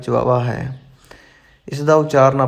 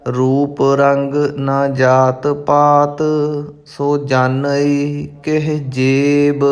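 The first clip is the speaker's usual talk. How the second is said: measured, careful recitation of sacred verse; intoned verse for learners; scripture recitation; much slower than usual. Acted. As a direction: recite each phrase distinctly, holding the endings.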